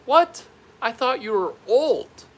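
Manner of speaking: high, loud astonished outburst; acted loud surprise; shocked disbelief. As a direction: blurt it out in amazement. Retold professor's shock at his year.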